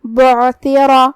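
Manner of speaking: بعثرہ with a full heavy ر, drawn out slowly. Shown as a demonstration. Teacher models a heavy ر in بعثرہ for students. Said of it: "ہم اسے بھاری آواز میں ادا کریں گے".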